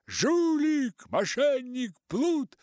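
high, loud volley of insults; angry shouts. A narrator's reading. Матросы кричат на Артура, злые громкие выкрики. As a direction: yell each insult at the cheat. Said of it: "итальянцы-матросы кричат".

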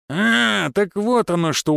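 high drawn "ah", then easing down; amused realisation. A narrator's reading. Finn finally understands what the guest wants, amused. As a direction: let the penny drop with a chuckle in mind. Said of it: "усмехнулся Финн".

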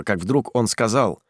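usual speaking voice

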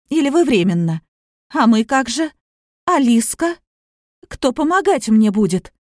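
hysterical scorn. Acted. Daughter berating mother's young suitor, hysterical scorn. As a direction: sneer at him, getting shrill. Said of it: "истеричность слышались сейчас в словах".

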